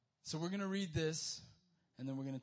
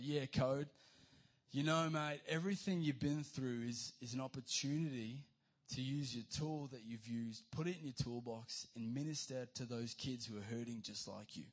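lightly imitated Australian accent of his dad; dad's accent; 2 semitones lower than usual. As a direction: quote your dad with a hint of Australian. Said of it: "quote him in his accent".

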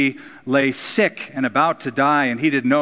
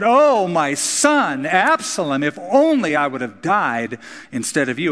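lament; 2 semitones higher than usual. Retold or imitated. King David lamenting his dead son.

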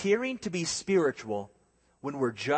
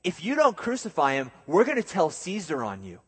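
louder, higher taunting threat; bully Pilate like a tattling kid; mock threat; 4 semitones higher, 3 dB louder than usual. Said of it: "The Jews said".

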